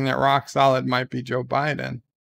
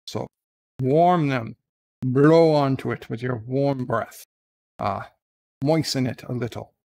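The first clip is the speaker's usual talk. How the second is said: lightly put-on Scottish brogue, answering a bagpipe question; a mild, hammy Scottish advice-giver; Scottish accent. Streamer answers a fan's bagpipe letter in a light Scottish accent. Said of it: "I sound Scottish".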